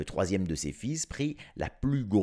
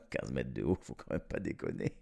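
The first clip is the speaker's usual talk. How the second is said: laughing disbelief; 9 semitones lower, 7 dB quieter, faster than usual. Real, not acted. Narrator mocking the kid's fifteen metres, laughing. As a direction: lower and softer, laughing through "Quinze mètres de haut". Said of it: "complètement mytho, le gosse".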